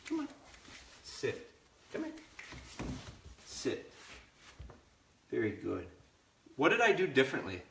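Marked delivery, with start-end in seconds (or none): 0.0-1.5 breathy whispered sit; whispered command. Real, not acted. Trainer whispering a sit cue to the puppy, whispered. 1.9-3.9 breathy whispered sit; whispered command. Real, not acted. Trainer whispering a sit cue to the puppy, whispered. 5.3-5.8 hushed, gentle praise to a puppy; soft praise. Real, not acted. Trainer quietly praising the puppy, hushed.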